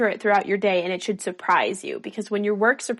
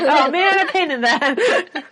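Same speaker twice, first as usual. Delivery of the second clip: louder, higher, slow delighted disbelief; laughing surprise; 6 semitones higher, 6 dB louder, much slower than usual. Retold or imitated. Surprised by her own painting, laughing disbelief. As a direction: laugh in amazed pride at own work. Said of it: "and be like".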